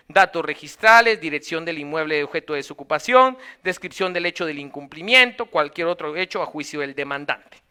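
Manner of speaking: brisk, run-on list reading; quick read-through. Real, not acted. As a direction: skim aloud through a legal list. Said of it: "Lo leo muy rápido".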